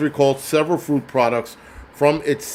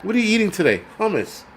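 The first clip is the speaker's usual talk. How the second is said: mock dialogue; 8 semitones higher, faster than usual. Mock exchange about eating hummus.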